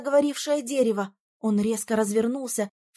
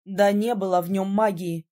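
sigh; 4 semitones lower than usual. A narrator's reading. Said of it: "вздохнул Ирас".

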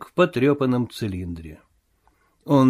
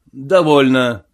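louder curt bark; 5 dB louder, slower than usual. Acted. The invisible voice silencing Marvel, louder curt bark. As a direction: cut him off with one barked word. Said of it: "гаркнул голос".

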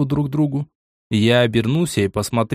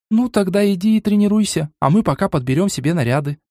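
с усмешкой; 8 semitones higher than usual. A narrator's reading. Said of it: "усмехнувшись".

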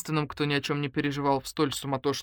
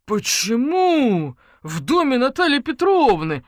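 confused; 8 semitones higher, 8 dB louder, slower than usual. Acted. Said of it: "вконец смешался сосед".

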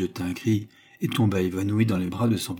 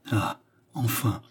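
slow sigh of relief; joyful murmur; slower than usual. A narrator's reading. Old man seeing her revive, joyful murmur. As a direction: breathe out relief, drawn out slowly. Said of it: "murmura le vieillard, avec une explosion de joie".

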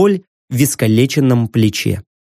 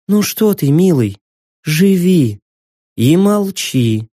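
sweetly menacing; slower than usual. Acted. Cassandra soothingly threatens.

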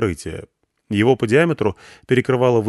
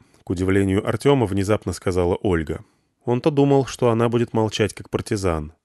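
ordinary delivery, nothing marked

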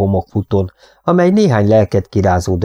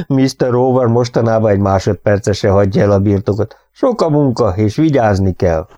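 put-on grinning old cowboy; 2 semitones higher than usual. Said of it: "aztán újra vigyorgott".

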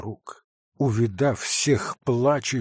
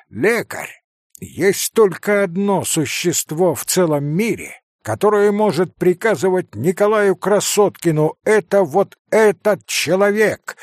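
rising, louder, higher defiance; defiant outburst; 7 semitones higher, 6 dB louder than usual. Acted. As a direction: throw it in the doctor's face. Kolya defiantly retorts to doctor.

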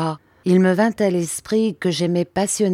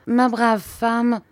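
slow, higher, measured address; understated menace; 6 semitones higher, much slower than usual. A narrator's reading. Murdstone turning on the servant, understated menace. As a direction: address her slowly with veiled menace. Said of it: "la regardait d'un air menaçant".

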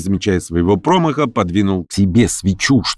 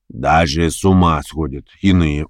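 major. Acted. The major's remark.

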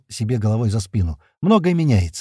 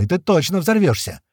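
angry yell; 6 semitones higher than usual. A narrator's reading. Клёпа yelling threat.

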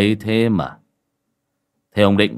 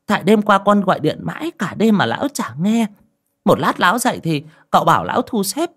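put-on old woman's voice; 10 semitones higher than usual.

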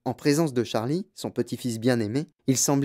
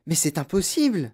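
put-on incredulous boy; 4 semitones higher than usual. Charlie protests in disbelief.

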